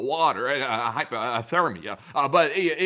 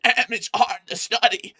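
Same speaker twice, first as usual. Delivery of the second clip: mock whine; 8 semitones higher, 5 dB louder than usual. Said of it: "I'd sit there and go".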